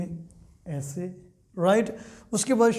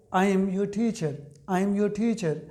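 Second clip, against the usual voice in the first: slow dictation; much slower than usual. Shown as a demonstration. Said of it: "तो मैंने क्या कहा है?".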